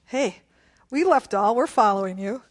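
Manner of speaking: lightly voiced eager disciple; a hint of a disciple pleading his case; Peter. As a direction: speak up as a follower staking a claim. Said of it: "Peter says".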